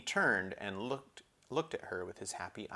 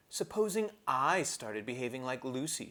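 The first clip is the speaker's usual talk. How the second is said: put-on a higher, petulant girl's voice; sulky Susan; 4 semitones higher than usual. Sulky Susan threatening the others, petulant girl voice. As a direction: sulk it out like a spoiled older sister.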